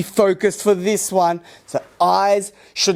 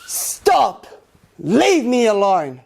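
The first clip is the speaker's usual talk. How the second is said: loud command; slower than usual. Shown as a demonstration. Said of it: "nice and loud".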